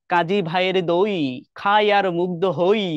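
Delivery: slow, the rhyming ends দই and হই drawn out; reading a rhyme aloud. Shown as a demonstration. Teacher reads the couplet to her class slowly, stressing দই and হই. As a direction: read the couplet slowly so দই and হই chime. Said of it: "এই যে দই আর হই".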